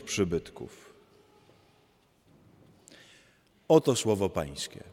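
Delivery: measured, solemn liturgical reading; gospel reading. Acted. Priest reading the Gospel at Mass, measured and solemn. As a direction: read the Gospel aloud to the congregation.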